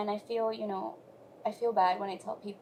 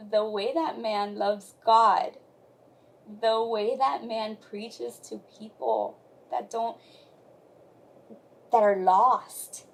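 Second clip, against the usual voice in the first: moved praise; 9 dB louder, slower than usual. Real, not acted. Praising her husband with feeling.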